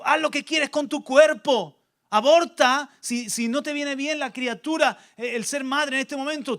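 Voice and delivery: the world urging you to do as you please; tempting world voice. Acted. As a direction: play the easygoing voice of the world.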